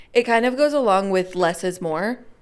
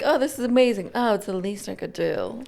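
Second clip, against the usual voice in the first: mock modest; 3 dB quieter than usual. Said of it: "people walk in like".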